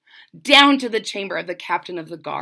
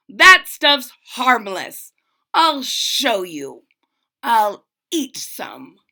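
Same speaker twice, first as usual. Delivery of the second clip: slow boastful captain; 5 dB louder, slower than usual. Acted.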